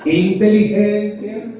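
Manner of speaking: high, fed-up voice telling someone to calm down; exasperated scolding. Acted. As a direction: play a shrill, annoyed friend losing patience.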